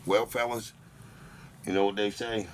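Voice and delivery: hosts signing off the show, announcer style; smooth radio-host send-off over the music; outro sign-off. Acted. Closing the podcast to the listeners, announcer sign-off.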